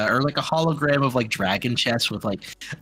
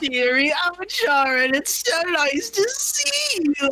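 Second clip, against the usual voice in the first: put-on old lady voice, very high pitch and slow. A storyteller voicing an old woman on the first floor greeting a visitor, Sharon's old lady voice. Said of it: "Like some old lady on the first floor".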